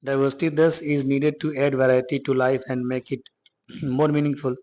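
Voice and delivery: slow, deliberate read-aloud of the English line; slow textbook reading. Acted. Teacher reads the textbook sentence to students, slow and deliberate. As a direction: read each word out slowly for the class.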